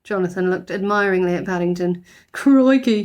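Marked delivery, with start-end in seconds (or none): 2.3-3.0 put-on loud boyish exclaim; loud admiring boy's crikey; impressed crikey. A narrator's reading. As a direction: marvel at the mess. Jonathan impressed.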